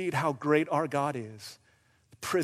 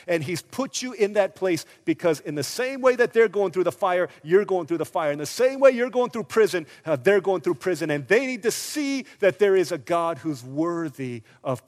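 louder, urgent sermon delivery; forceful preaching; 3 semitones higher, 6 dB louder than usual. Real, not acted. Preacher urging the congregation about prison, forceful.

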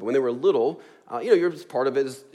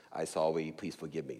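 put-on mumbled, low little kid's sorry; a small child forced to apologize, mumbling it; a hint of a sulky toddler; grudging toddler apology; 7 semitones lower, 8 dB quieter than usual. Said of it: "Something like that's what it usually sounded like".

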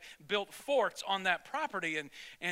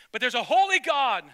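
loud, higher burst on holy; emphatic preaching; 6 semitones higher, 11 dB louder than usual. Real, not acted. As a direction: proclaim it with force.

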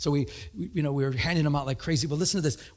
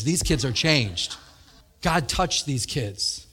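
slow, earnest testimony; father marveling at changed kids, slowly; solemn dad; 3 semitones lower, slower than usual. Retold or imitated. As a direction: say it slowly with awe. Dad speaks solemnly on video.

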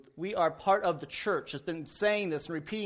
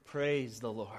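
relieved after a deep breath; 9 semitones lower, 7 dB quieter than usual. Retold or imitated. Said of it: "takes a deep breath".

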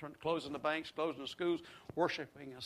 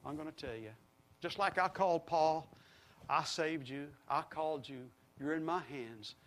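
quiet voice of God; 4 dB quieter than usual. Retold or imitated. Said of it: "and he says".

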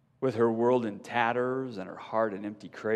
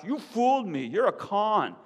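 higher, louder accusation; angry shout; 10 semitones higher, 5 dB louder than usual. A narrator's reading. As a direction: rage at the con. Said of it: "she shouts".

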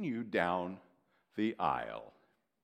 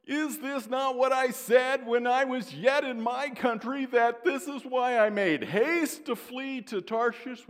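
high, loud indignant prayer; complaining Jonah; 13 semitones higher, 9 dB louder than usual. Retold or imitated. Jonah protests to God in prayer, high and indignant. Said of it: "he prayed to the Lord and said".

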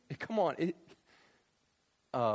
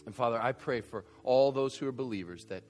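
closing prayer; 2 semitones lower than usual. Acted. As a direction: pray earnestly over the church.

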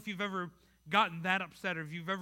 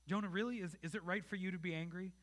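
gracious question; 5 dB quieter than usual. Retold or imitated. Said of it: "God responds so graciously to Jonah".

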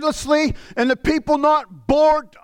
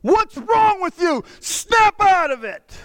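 mock bark; 5 semitones higher, slower than usual. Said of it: "barked at me".

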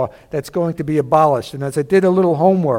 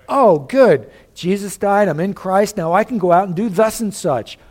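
higher, breezily self-satisfied mock quote; mock carefree sinner; 3 semitones higher than usual. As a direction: lightly act out someone glad of a loophole. Mocking a presumptuous sinner's reasoning.

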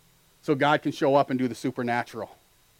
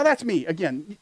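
ordinary talk, nothing marked

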